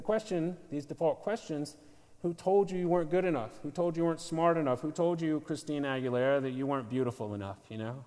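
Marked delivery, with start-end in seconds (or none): 2.2-7.6 accusing voices. Acted. Voicing accusing inner voice.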